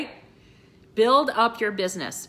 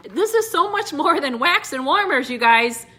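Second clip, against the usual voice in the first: tearful emphasis; 4 semitones higher, 5 dB louder than usual. Real, not acted. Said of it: "getting all teary-eyed".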